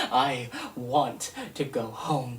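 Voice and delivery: slow, with a bitter little laugh; rueful laugh. Acted. Poet closing the poem, slow rueful laugh.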